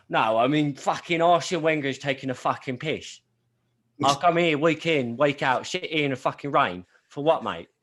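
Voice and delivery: a Boston guy bitching about his team; Boston accent. Retold or imitated. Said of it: "it's my Boston accent".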